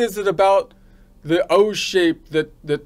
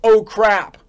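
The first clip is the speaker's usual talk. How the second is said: mock alarm; 4 semitones higher, 5 dB louder than usual. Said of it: "people have been pointing at me saying".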